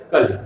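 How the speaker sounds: कली with a short final i, "kali"; short final vowel. Shown as a demonstration. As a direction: cut the end of कली short. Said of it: "छोटी की मात्रा लगाई गई तो".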